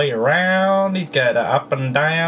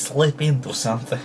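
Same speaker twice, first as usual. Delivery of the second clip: laughing repeat; 4 semitones lower than usual. Shown as a demonstration.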